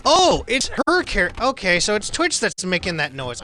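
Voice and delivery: high, loud sudden discovery; surprised realization. Real, not acted. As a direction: catch on all at once. Realizes source of robot noise.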